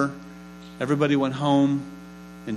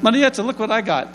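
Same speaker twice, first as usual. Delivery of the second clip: excited showing off; 8 semitones higher than usual. Retold or imitated. Showing host mother royal invitation.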